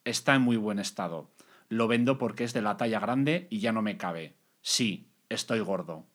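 flat robotic ad read. Acted. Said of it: "¿Y por qué lo has leído así?".

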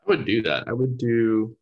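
warbly, watery audio; underwater voice. Real, not acted. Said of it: "it suddenly sounds like your voice is underwater".

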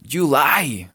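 July ending like an "ay!" from a burn. Shown as a demonstration. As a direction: say July as "yu-LAI", ending on an ouch. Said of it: "como si se quemaran". (July terminado en "¡ay!", como al quemarse)

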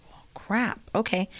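soft whispered resignation; resigned whisper. Retold or imitated. Mom answering her blunt son with a soft whisper. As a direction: give up under your breath. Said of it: "I'm like".

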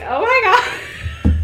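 high, drawn-out mock swoon; gushing reaction. Reader recalling a favorite scene, hammed-up squeal. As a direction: squeal it very slowly, half laughing. Acting out own gleeful reaction.

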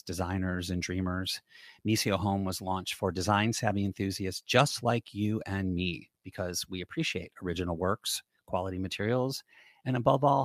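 smooth, measured podcast ad read; sponsor ad read. Acted. Host thanking a sponsor for supporting the show, polished ad-read delivery. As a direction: read the sponsor copy to the listeners, evenly paced.

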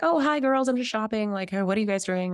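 lightly voiced chatty aunt; chirpy aunt greeting. Aunt bumps into two girls shopping, breezy greeting. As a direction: start high, then ease down breezily.

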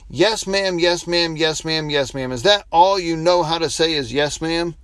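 fed-up waitress mimicking his politeness, half-hearted; exasperated waitress. Waitress mocking the pastor's endless yes ma'am, mild exasperation.

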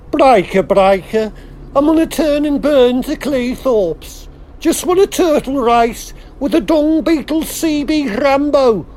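trucker calling over the CB; radio call, trucker patter; CB radio trucker lingo. Acted. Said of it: "Go on, Captain. Please".

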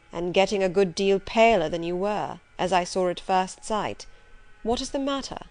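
a hint of a gruff gentleman probing; lightly voiced stern master. Master questioning his governess, lightly voiced and probing. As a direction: press her gently but firmly, as Rochester.

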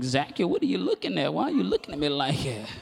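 mock elderly wife questioning her husband; softly put-on old-lady voice; old woman. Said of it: "remember, she's old".

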